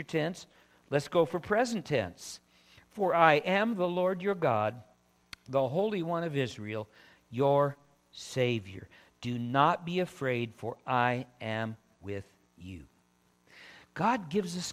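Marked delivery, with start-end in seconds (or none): 2.9-12.9 solemn reading that settles downward; scripture reading. Acted. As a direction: start firm, then lower into reassurance. Reads scripture aloud.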